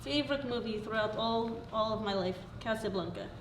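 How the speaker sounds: put-on light Slovak accent; a hint of a Slovak accent. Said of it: "Slovak accent".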